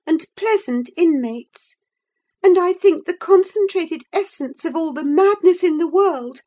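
impatient visitor at the end of his tether; exasperated gentleman. Acted. Visitor begging the old servant to hurry, exasperated.

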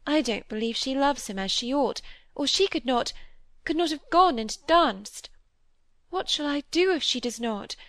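mounting jealous distress; stung, agitated. Acted. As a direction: let the suspicion sting her. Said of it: "as if stung by a venomous fancy".

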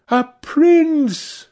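high, ringing, delighted exclamation; musical cry. A narrator's reading. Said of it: "she cried musically".

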